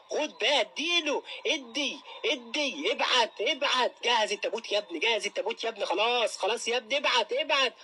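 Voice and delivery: high, frantic cheering as the blows land; excited cheering. Real, not acted. Fan cheers the Algerian fighter landing blows, screaming high and excited. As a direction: yell him on at the top of your voice.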